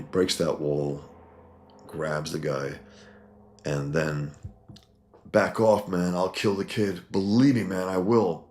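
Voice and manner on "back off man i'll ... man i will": higher and louder, pleading menace; desperate threat. Acted. Mutant threatening Batman over the baby, loud and high. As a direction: threaten wildly to keep him back.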